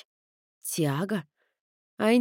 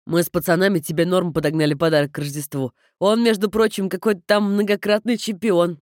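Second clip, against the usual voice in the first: brother voice; 4 dB louder than usual. Acted.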